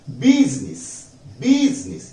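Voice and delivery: बिजनेस said biznis with z, second take rising high; correct pronunciation. Shown as a demonstration. Teacher modelling the correct word for the class, the second take rising high. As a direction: model बिजनेस as English business. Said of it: "बिजनेस नहीं होता".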